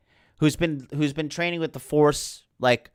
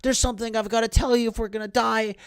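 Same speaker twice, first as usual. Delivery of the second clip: high, mock-earnest Finn voice; Finn confessing; 8 semitones higher than usual. Finn pleading with Rey before the sandworm, high mock-earnest voice. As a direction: pitch it up like a lovesick sidekick. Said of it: "Finn is like".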